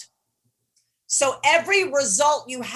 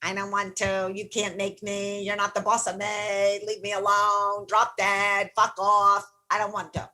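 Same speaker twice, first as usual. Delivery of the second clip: defiant brat; 3 semitones lower than usual. Retold or imitated. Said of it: "Your brat is like my nineteen-year-old daughter".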